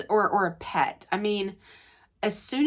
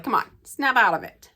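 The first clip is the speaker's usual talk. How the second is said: louder, brisk mock rebuke; verbal smack; 3 semitones higher, 5 dB louder than usual. Mother jolting her whining daughter, mock sharp rebuke. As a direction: deliver it like a slap across the face. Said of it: "that nonverbal smack across the face".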